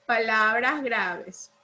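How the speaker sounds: slow, spelled-out answer; dictating. Real, not acted. Teacher repeats the title for a pupil, slow dictation. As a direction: say it slowly so it can be copied.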